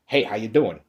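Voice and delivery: lightly mocking a prim, proper-English greeting; a hint of a stiff, nerdy telephone voice; nerdy proper talk. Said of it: "That nerdy ass talk".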